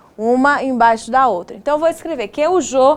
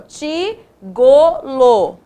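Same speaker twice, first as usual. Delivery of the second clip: slow wrong try; much slower than usual. Shown as a demonstration. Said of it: "Não".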